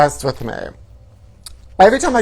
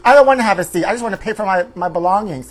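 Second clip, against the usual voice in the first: loud, higher, indignant refusal; screaming customer; 4 semitones higher, 5 dB louder, faster than usual. Retold or imitated. Customer refusing to sit down, angry loud protest. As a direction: refuse the seat, raising the voice hard. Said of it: "And then she started screaming".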